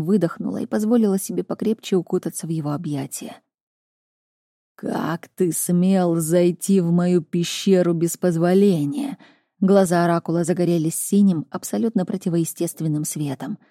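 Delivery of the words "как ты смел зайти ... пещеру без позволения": menacing oracle. Acted. Oracle confronts intruder.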